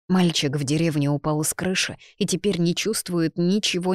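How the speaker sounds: plain reading voice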